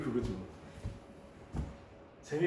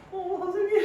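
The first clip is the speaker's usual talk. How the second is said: very high, louder student cry; imitated delighted student; 5 dB louder than usual. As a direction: mimic a student thrilled to spot the teacher. Imitates student spotting teacher. (높고 반갑게 외치는 학생 흉내)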